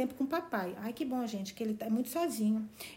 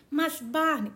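protesting; 5 semitones higher, 3 dB louder, much slower than usual. Acted. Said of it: "protestou Valancy".

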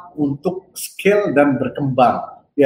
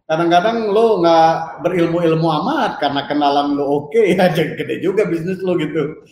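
chuckling through the words; amused, laughing while talking. Real, not acted. Joking about connections beating knowledge.

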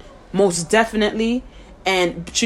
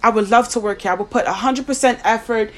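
mock professional voice; 2 semitones higher, faster than usual. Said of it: "we wanna talk like".

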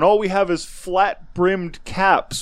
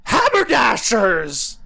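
retold shout; 6 semitones higher, slower than usual. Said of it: "you said".

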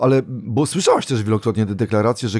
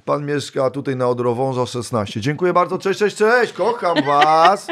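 mock star; 4 semitones higher than usual. Star reciting fan's data.

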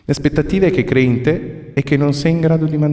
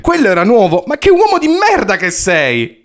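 high, loud angry insult; angry shouting; 10 semitones higher, 4 dB louder than usual. Acted. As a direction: yell it at him, furious. Insulting the agent.

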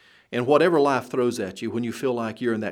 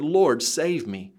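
slow desperate plea; 3 semitones higher, slower than usual. Acted. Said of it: "in just the desperation".

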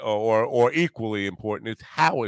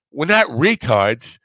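louder, drawn-out mock British accent; 4 semitones higher, 7 dB louder, slower than usual. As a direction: imitate an indignant Englishman, slow and higher. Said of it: "some guys from England on".

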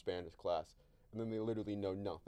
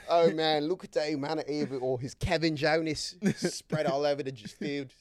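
loud, higher play-by-play voice; sports announcer; 5 semitones higher, 8 dB louder, slower than usual. Acted. Announcer describing Kevin Jonas spread over the field, loud commentary. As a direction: call it like an excited match announcer. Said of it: "The fifa announcers".

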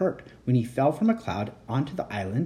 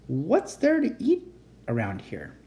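put-on baby dragon asking what there is to eat; hungry dragon; 3 semitones higher than usual. Dragon voiced in read story.

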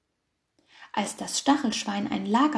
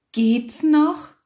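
grumbling; 6 semitones higher, 8 dB louder than usual. A narrator's reading. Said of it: "meckerten die Schafe".

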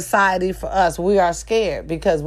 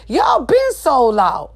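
slow shout; 4 semitones higher, slower than usual. Real, not acted. Shouted accusation.

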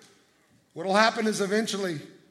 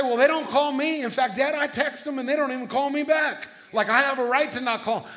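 raised, louder mock complaint of a youngest brother; whiny protest; 5 semitones higher, 3 dB louder than usual. Pastor imitating his younger self complaining to his dad, whiny. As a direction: play the aggrieved kid brother pleading his case.

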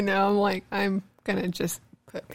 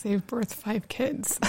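talking through a yawn; slow, yawning words; 2 semitones higher, 5 dB quieter, slower than usual. Real, not acted. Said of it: "I'm sorry, I'm yawning".

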